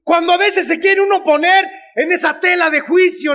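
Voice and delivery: emphatic shout. Real, not acted. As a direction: preach it to the crowd. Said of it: "preaching point to audience".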